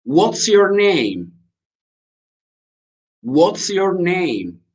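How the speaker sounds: slow, high-pitched teacher demo; drawn-out English lesson question; slow model phrase. Shown as a demonstration. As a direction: say it slowly for learners, drawing out each word.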